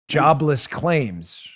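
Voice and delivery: Jobless claims said slowly and weighted; stress on claims. Real, not acted. Host repeating the grim figure, slow and heavy. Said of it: "Why did I emphasize the word claims?".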